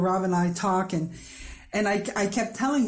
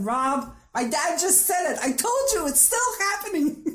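retold upset message; 8 semitones higher than usual. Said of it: "I left a message to Rob".

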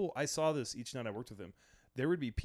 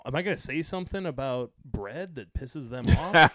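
laughing through it; 2 semitones higher, 7 dB louder than usual. Retold or imitated. Joking about the Italian crowd.

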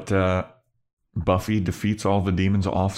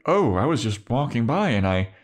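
awkward, higher-pitched explaining away; Riley; 3 semitones higher than usual. Retold or imitated. Military guy awkwardly explains himself to the gang, mock innocent. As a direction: imitate someone innocently bluffing, pitch wandering up. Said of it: "awkward moment of Riley trying to explain away".

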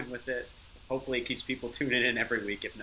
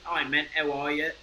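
deliberately phoney British accent; fake British accent; 4 semitones higher than usual. Shown as a demonstration. Showing a fake British accent for the episode. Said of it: "I could do a British accent".

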